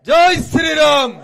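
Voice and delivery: loud, slow drawn-out rally shout; shouted slogan. Real, not acted. Leader rousing the rally crowd, slow loud shout.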